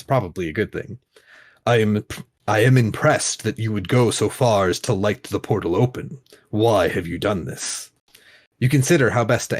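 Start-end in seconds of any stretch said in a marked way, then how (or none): 1.7-7.9 grand languid royal commands. Acted. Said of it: "I'm having fun doing the Sultan's voice".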